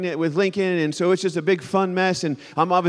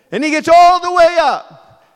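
tense; 10 semitones higher, 9 dB louder than usual. A narrator's reading. Tense story climax.

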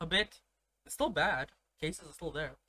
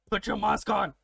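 slightly raised, firmer repeat; insistent retold order; 3 semitones higher, 3 dB louder than usual. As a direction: imitate an uncle pressing his demand. Uncle repeats the order more insistently.

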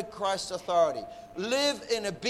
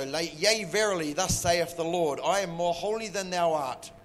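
mock biblical prophet; 2 semitones lower than usual. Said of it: "look down your nose at everybody else and you go".

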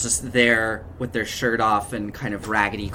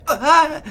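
sudden high scream from afar; a shrill cry of pain off in the distance; distant scream; 8 dB louder than usual. Acted. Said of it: "those screams becoming a bit louder".

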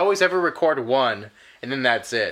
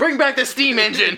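laughing; 7 semitones higher than usual. Real, not acted. Laughing joke.

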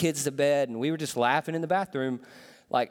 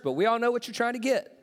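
higher, fast knowing tease; 7 semitones higher, faster than usual. Shown as a demonstration. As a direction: let them know you see through it. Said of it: "I know it's church".

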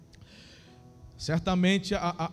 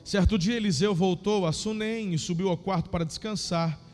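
lively Bible reading, raised pitch; story narration; 3 semitones higher than usual. Acted. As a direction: read the story with feeling.

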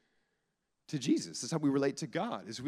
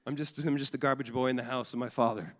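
mock humble child. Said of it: "them introducing themselves like that".

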